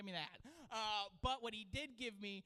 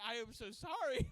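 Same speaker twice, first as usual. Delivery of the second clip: laughing apology; 3 semitones higher, 5 dB louder than usual. Retold or imitated. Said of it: "I was like".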